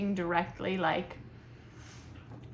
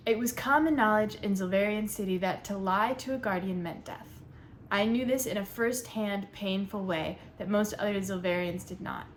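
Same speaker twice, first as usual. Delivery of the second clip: book read aloud, steady narration. Acted. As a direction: read it out like a first page. Reads the first page aloud.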